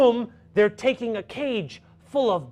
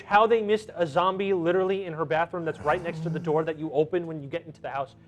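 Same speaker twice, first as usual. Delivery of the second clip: usual speaking voice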